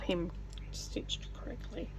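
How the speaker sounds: whispered while concentrating; whispering. Real, not acted. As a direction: breathe it out, focused. Concentrating on stitching.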